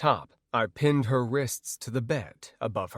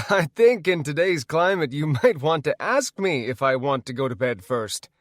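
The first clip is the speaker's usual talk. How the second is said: small laugh; 3 semitones higher, 5 dB louder than usual. Acted. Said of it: "I said with a small laugh".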